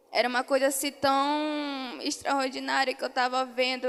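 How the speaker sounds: tearful. Real, not acted. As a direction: voice catching with tears as she recalls it. Moved while recounting heavenly vision.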